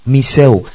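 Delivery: "Miseo" with the stress on the final O; Greek pronunciation. Shown as a demonstration. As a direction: say "Miseo" slowly, leaning on the last O. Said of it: "The last O accentuated".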